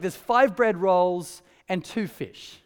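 slow, mock-naive Andrew offering the food; slow, dead-earnest Andrew, almost silly; slow deadpan offer. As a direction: spell out the meagre food slowly, as if it's a real plan. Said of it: "and he's like".

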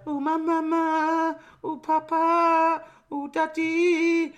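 put-on very high, slow, drawn-out girlish voice; mock teenage bride. Bride all through the record, mock high drawn-out wail. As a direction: imitate her in long, high held notes. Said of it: "And she's going".

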